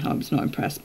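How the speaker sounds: soft, whispered verdict; whispering her displeasure to the viewers; whispered aside. Real, not acted. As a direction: breathe it out as a dry aside. Repeated as a closing remark.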